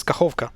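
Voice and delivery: Kachovka with the k kept before the final a; correct K pronunciation. Shown as a demonstration. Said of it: "not Kahova".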